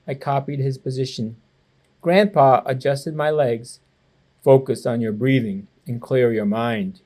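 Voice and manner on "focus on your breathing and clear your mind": lower, calm teacher voice; steady grandfather giving a lesson; instructing. Acted. Grandpa teaching tai chi to his grandson, low and calm. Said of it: "he instructed".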